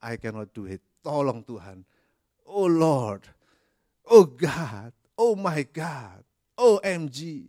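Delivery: imitated plea building to a loud cry on "oh God"; desperate plea. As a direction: beg God for help, rising to a cry. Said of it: "Tetapi kalau kita mengatakan".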